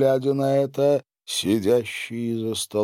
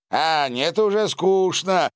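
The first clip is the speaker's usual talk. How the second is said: displeased; 8 semitones higher than usual. A narrator's reading. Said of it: "недовольно поморщился граф Данила".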